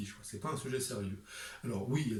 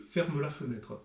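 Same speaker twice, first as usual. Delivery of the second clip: «ferme la fenêtre» in a southern French accent, «ferme» sounded as «fermeu»; slower than usual. Shown as a demonstration. Author contrasting it with Paris, southern French accent. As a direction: let the final e ring in «ferme», southern style.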